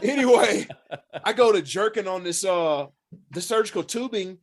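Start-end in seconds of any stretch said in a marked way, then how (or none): 0.0-0.7 laughing through the word; a word carried on a laugh. Real, not acted. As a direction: laughs his way back into the story. Laughing at own story.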